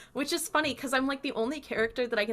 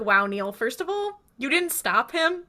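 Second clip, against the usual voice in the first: mock incredulous scolding; 5 semitones higher, 4 dB louder than usual. Host scolding the friend who let the boyfriend in, incredulous. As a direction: pitch climbing into disbelief.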